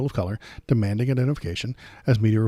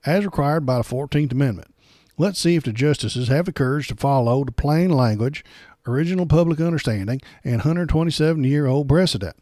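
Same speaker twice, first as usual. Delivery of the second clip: hint of a sneering Southern accent, a little louder; mock Southern accent; 3 semitones higher, 5 dB louder than usual. Host keeps reading the pundit's post in a mock Southern accent. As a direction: read the quote in a light mock Southern accent. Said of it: "a Southern accent, uh, in a very racist way".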